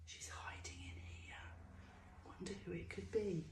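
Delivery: put-on secret whisper to the children; soft conspiratorial whisper. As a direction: hush it like a surprise.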